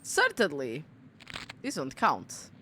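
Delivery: low mock answer voice. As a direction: answer yourself in a low, quiet voice.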